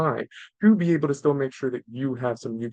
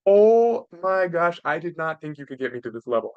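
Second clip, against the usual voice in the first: exasperated parent; 3 dB louder than usual. Acted. Parent venting at kids who pushed every button, exasperated. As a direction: draw out the opening in mock disbelief at the kids. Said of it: "you can hate them in a moment".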